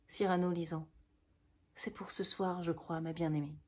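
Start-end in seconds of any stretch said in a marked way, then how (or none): 1.7-3.6 hushed reading. Acted. Cyrano reading the farewell letter.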